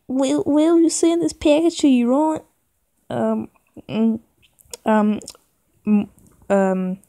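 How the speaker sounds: high whispery mom voice. Acted. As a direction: play the mother asking sweetly. Mom voiced asking favor.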